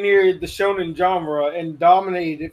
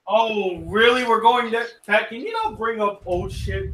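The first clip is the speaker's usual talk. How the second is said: higher, exasperated objection; indignant protest; 4 semitones higher than usual. Real, not acted. Host shuts down his friend dredging up an old story, indignant.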